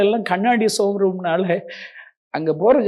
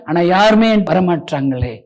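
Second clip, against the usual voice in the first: usual speaking voice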